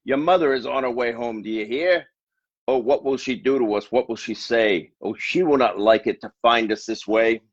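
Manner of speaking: fretting fish, voice up a little; fearful fish. Acted. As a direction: fish nervously warns the children. Fish fears mother's return.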